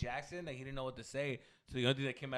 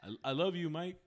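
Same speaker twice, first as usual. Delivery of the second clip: stammered, awkward mock fan; stammering starstruck fan. Friend imitates the comic blurting it out to Michael Jackson, stammering. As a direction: stumble over the first word, starstruck. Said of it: "But he just".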